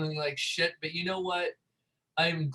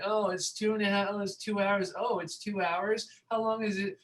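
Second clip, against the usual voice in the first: mocking the whining crowd in line; a pitched-up whine about the wait; whiny complainers; 5 semitones higher than usual. Imitating people complaining in the vaccine line. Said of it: "people are complaining and like".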